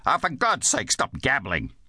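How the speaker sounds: exasperated outburst, starting high and dropping; snapping. Acted. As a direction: snap at a child who won't stop talking. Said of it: "he snapped".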